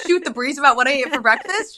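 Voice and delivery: hammed-up scolding of a husband who won't pick up; exasperated. Wife scolding Brandon for missing three calls, exasperated.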